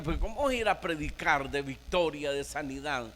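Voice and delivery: lightly voiced devil sowing doubt; tempting Satan. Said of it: "diciéndole".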